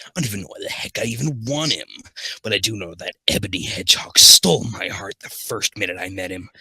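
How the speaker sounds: dramatic first-person fanfic reading, key words stretched and punched; story narration. Acted. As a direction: read the confession aloud with mock earnestness. Reads fan fiction as Sonic.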